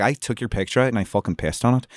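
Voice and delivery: quick demo of far-north Irish accent; Northern Irish accent. Shown as a demonstration. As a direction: imitate a Northern Irish speaker. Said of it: "northern people".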